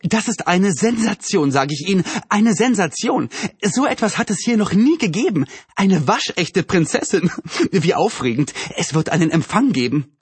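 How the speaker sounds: high-pitched, gushing shrill voice. A narrator's reading. Excited neighbour announces the princess sensation, shrill. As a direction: gush it out high and shrill, savouring the big words. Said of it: "mit schriller Stimme".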